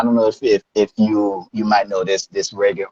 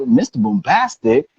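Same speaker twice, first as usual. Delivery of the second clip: retold questioning repeat; puzzled echo; 5 semitones higher than usual. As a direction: repeat the nickname back, unsure. Retelling his puzzled echo of nickname.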